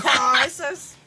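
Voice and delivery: loud, hammed-up Australian accent. Shown as a demonstration. Co-host joining the accent game, loud mock Australian. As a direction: belt the word out in mock Australian. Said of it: "in an Australian accent".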